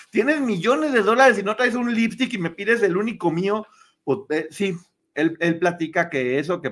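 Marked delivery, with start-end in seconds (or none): 0.1-3.7 mock outrage, raised pitch; indignant refusal. Kate refusing to lend Meghan her lipstick, mock indignant. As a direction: scold in hammed-up disbelief. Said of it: "Kate le torció la jeta".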